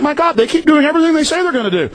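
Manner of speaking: panicked realization building to a yell; frantic panic. Retold or imitated. Host reliving his own alarm to listeners, frantic and shouting. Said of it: "and I'm like".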